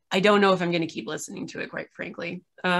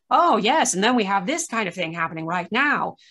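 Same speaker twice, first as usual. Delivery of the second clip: lightly imitated radio announcer, lifted at the start. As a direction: put on a slight radio-host delivery. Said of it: "like, a radio voice".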